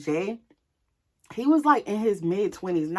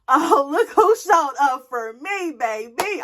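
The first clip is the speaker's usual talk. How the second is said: loud, drawn-out gloating delight; flirty, thrilled exclamation; 6 semitones higher, 5 dB louder, slower than usual. Retold or imitated. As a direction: crow over a crush turning up. I was happy to see him.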